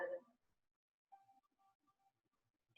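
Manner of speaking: long hissing ocean-like breath out. Shown as a demonstration. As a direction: exhale through the throat like waves. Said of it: "sound a little bit like an ocean".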